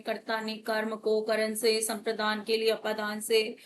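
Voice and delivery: memorised list in an even monotone; rote recitation. Shown as a demonstration. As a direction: rattle it off like a list learnt by heart in childhood. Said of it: "ये हमें ऐसे रट्टे लगाए गए थे". (रटा-रटाया पाठ, एक सुर में)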